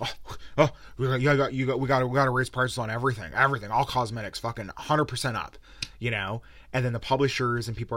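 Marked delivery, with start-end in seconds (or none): 0.0-5.6 hammed-up corporate bean counter scrambling to raise prices; mocking bean counters. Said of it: "are gonna be like".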